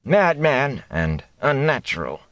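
slow grumbled complaint; grumbled under breath. A narrator's reading. Old thatcher grumbling about the gleeman, slow mock mutter. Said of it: "grumbled under his breath again".

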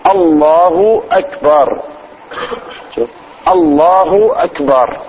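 الله أكبر slow and measured, hamzas sounded; correct takbir. Shown as a demonstration. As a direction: show the right way, calmly. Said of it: "ده الكيفية". (الكيفية الصحيحة للتكبير)

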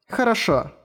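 put-on a small curious girl asking; young girl voice. Latina answers. (голос маленькой девочки)

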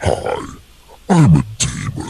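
demon voice. Pretend. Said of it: "I just hear the demon voice".

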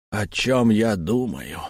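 slow, lifeless question. Acted. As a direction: ask it drained of life. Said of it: "безжизненно спросил Сканди".

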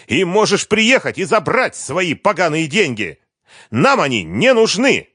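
high, loud spitting fury; angry scream. A narrator's reading. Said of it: "закричала ещё громче".

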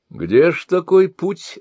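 high, eager question, a bit slow; lively question. A narrator's reading. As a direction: ask with keen curiosity. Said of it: "оживлённо спросил чародей".

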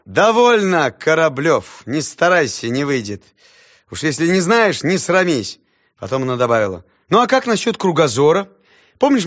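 teacher reproaching a pupil; lecturing teacher. Acted. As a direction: scold then quiz him.

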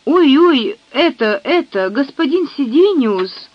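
breathless frightened maid; gasping out the news; urgent panting report. Acted. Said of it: "задыхаясь, выпалила девушка".

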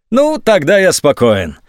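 slow, high sarcastic calm. A narrator's reading. General mocks the colonel's promise, sarcastic. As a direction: fake relief, all sarcasm. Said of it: "сменилась сарказмом".

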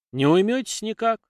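sharp, high angry question. A narrator's reading. Lyuty angrily confronts the riders at the gate. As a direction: demand it with sudden anger. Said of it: "зло поинтересовался Лютый".

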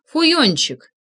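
loud furious cursing down the phone; stream of curses. A narrator's reading. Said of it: "поток ругательств".

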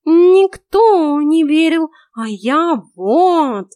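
a cat buttering up his mistress; talking cat flattering the heroine, high and drawn out; fawning cat. A narrator's reading. Cat boasting his loyalty.

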